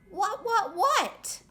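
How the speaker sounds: high, startled repeated what. Acted. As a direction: jump up in surprise on each what. Jitterbug startled by friends.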